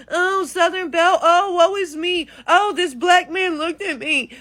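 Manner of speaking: lightly voiced fainting Southern belle, woe is me; a hint of a helpless belle, mocking. Mocking white women as a swooning Southern belle, lightly done. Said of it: "You act like you fucking".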